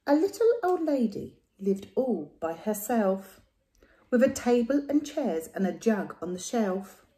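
lively storybook reading; reading to children. A narrator's reading. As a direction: read it like a bedtime story. Reads rhyming picture book.

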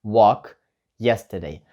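slow, careful short form; slow contracted form. Shown as a demonstration. Teacher modelling the short form for students. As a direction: say the contraction clearly. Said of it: "Або скорочено".

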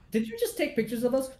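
high, disbelieving question; incredulous. Retold or imitated. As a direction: ask it in shock. Acted accusing question.

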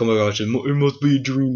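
a hint of a clueless derp; mock dazed gasp; dopey derp voice. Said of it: "he was like a fucking derp".

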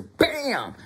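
high-pitched impact sound effect; punchy "bam" jumping up in pitch; imitated blow. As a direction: act out the whack.

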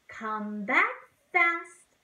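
quick, bouncy come back; fast. Shown as a demonstration. Teacher sings the fast bird returning.

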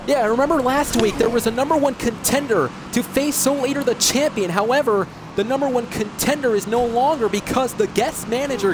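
hyped game commentary, lifted at first; sportscaster reading out the stakes; play-by-play announcer. Acted. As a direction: call the match for the viewers. Calls the match as announcer.

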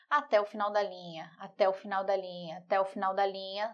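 ordinary talk

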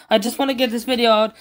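blurting it out, stressed about a deadline; worked up. Real, not acted. Youtuber racing to post his video, frustrated and rushed. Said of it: "Sorry, I'm a bit worked up".

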